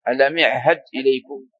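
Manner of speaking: يعهد said as "i'had"; opening "i" sound in يعهد; kasra dialect form. Shown as a demonstration. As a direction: say ألم يعهد as "alam i'had". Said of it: "هؤلاء يكسرون".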